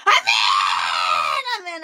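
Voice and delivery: congregation amen. Retold or imitated. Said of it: "경상도 사람들은".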